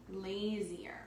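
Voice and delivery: "lazier" breathed out in a whisper, no voice; a hushed repeat of "lazier". Shown as a demonstration. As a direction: whisper the word lazier back to the class. Teacher repeats the word in a whisper.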